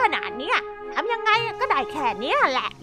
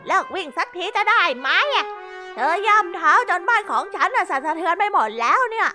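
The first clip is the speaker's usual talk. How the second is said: irritated shout; 8 semitones higher than usual. Acted. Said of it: "เมียแคสได้ตะโกนใส่ด้วยความหงุดหงิด".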